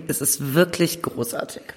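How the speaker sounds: talking between sips; just swallowed a sip of schnapps; while sipping a drink. Real, not acted. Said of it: "ich muss noch mal einen Schluck nehmen".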